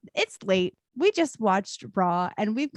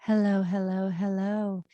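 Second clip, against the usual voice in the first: late night radio host. Acted. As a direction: ease in like a midnight radio host. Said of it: "like, radio host voice".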